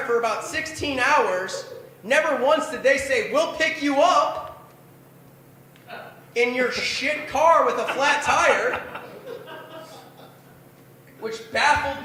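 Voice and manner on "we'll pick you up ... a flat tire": mock tagline. Mocking the tagline.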